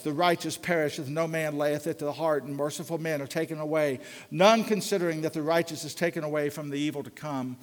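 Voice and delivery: measured, level scripture reading; even tone. Retold or imitated. Quoting an old preacher who didn't vary much, even-toned. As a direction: read the verse evenly with little variation. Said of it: "his tone was even".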